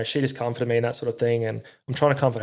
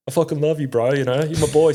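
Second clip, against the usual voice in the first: mock gushing mate; 4 semitones higher, 5 dB louder than usual. Mate's gushing thanks retold.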